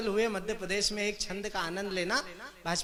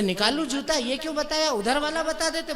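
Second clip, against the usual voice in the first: angry scolding; 5 semitones higher, 5 dB louder than usual. Acted. Acted angry scolding of the aide.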